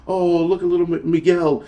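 a hint of a pleading charity-ad voice, mocked; mock sympathy plea. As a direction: parody the heartstring pitch with a touch of sarcasm. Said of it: "they wanna tug at our heartstrings and be like".

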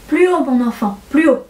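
kindly, lightly voiced old gentleman; bienveillance. A narrator's reading. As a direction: gently coax a pupil to speak up. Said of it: "dit avec bienveillance". (bienveillant, encourageant)

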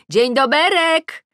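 high, loud, stretched-out hail; shouted greeting. A narrator's reading. Neighbour Ula greeting from her window, shouting. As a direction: sing out a long, loud hello. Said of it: "wychyla się z okna i krzyczy".

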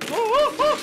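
high loud alarm; alarmed whoa. Real, not acted. Gamer recoils at a horrible foot trap, high alarm.

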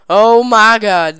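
loud, slow startled oh my god. Real, not acted. Gamer startled by the twitchy car, loud slow oh my god. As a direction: blurt it out, caught off guard.

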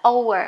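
"over" said as an "âu-ờ" glide, no v; pronunciation demo. Shown as a demonstration. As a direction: sound out "over" as oh plus uh. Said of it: "Hai là mình sẽ đọc nó là". (đọc "over" thành âm "âu-ờ")

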